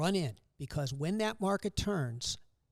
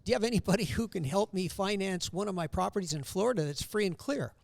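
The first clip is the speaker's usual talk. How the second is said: put-on New York accent; 4 semitones higher than usual. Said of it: "I hear this guy in this New York accent say".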